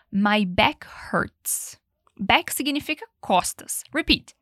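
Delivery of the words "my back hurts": very slow whisper. Shown as a demonstration. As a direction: whisper it slowly and clearly. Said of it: "Ele falou". (sussurrando devagar)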